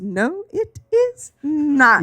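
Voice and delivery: slow, stern mother; cold slow reply; a hint of a stern mother; stern mom.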